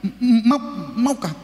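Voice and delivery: halting stutter, rising at the end; mock stammered question; stuttering salesman. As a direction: stumble into an eager offer. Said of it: "Lalu dia bilang".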